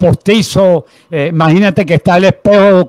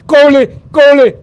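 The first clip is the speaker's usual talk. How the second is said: imitating a wailing little girl; higher-pitched, imploring child calling out; mock tearful cry; 7 semitones higher, 5 dB louder, slower than usual. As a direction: cry it out like an overwhelmed young fan.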